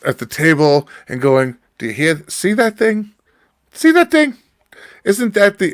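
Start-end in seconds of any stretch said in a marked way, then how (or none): 1.8-5.7 high, exaggerated Jewish old-lady accent; mock a fussy Jewish grandma, pitched way up. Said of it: "in the most Jewish sounding voice on the planet".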